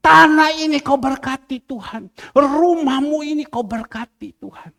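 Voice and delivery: re-enacted blessing, each phrase opening high and dropping away; prayer calling out. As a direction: call down God's blessing in fervent repeated phrases. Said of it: "Itu saja yang saya berseru".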